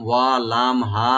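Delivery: ওয়া লাম হা each short, no stretch; plain letters. Shown as a demonstration. Teacher showing students the letters with no stretch. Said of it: "normal করে বলতে".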